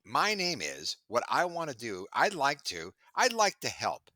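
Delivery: imitating a pushy sales pitch rising to a squeak; mocking a sales email. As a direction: parody an eager cold-email opener. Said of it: "please stop with the".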